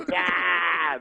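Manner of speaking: drawn-out imitated laugh cry; Bill Cosby. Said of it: "Then he laughs".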